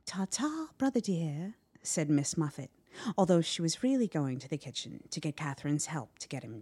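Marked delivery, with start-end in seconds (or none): 0.1-1.6 breezy. A narrator's reading. Sister breezily leaves trapped brother.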